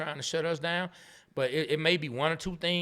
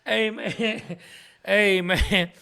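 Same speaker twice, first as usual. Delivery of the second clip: loud, breathless through laughter; trying to talk through laughing; 5 semitones higher, 6 dB louder, much slower than usual. Real, not acted. Still laughing after the joke.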